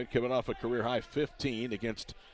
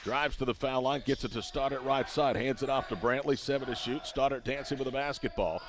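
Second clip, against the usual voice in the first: play-by-play. Real, not acted. Live call of the play.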